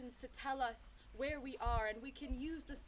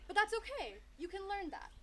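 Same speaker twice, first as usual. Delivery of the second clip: higher, lilting encouragement; reassuring; 8 semitones higher, 3 dB louder than usual. A narrator's reading. Elephant encourages the young sheepdog, reassuring. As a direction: lift the voice to reassure.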